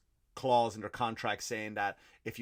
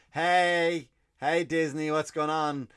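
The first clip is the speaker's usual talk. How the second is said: louder, higher mock hail; hearty phone greeting; 5 semitones higher, 7 dB louder, slower than usual. China phoning Disney about the movie, hearty greeting. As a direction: greet them loudly like an old pal.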